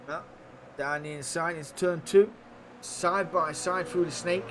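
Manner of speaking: lively live race play-by-play; motorsport commentator. Acted. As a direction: call the race as it happens.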